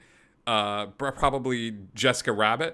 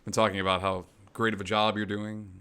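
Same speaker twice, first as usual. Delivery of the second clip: flirty character voice; 3 semitones lower than usual. Acted. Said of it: "I hate that voice".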